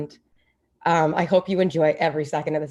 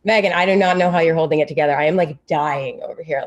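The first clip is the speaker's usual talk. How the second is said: emotional; 6 dB louder, faster than usual. Real, not acted. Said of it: "like, crying".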